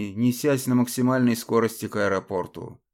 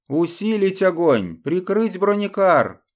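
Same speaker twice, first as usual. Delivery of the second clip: loud battlefield order, slower on the second half; barked command; 6 semitones higher, 4 dB louder than usual. Acted. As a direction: shout the order over gunfire. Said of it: "скомандовал бельгиец".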